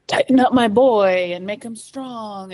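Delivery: lightly voiced hard-driving dad; mock tough dad. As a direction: mimic a father toughening up his son. Mimics ex-husband's tough-dad talk.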